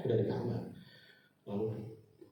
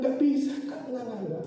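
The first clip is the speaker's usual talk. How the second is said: acted refusal; 11 semitones higher than usual. Acts his refusal to give money.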